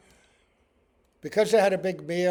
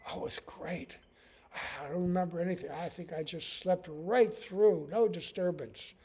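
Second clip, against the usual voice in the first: drowsy contentment; 6 dB quieter than usual. Acted. Sleeper answering contentedly.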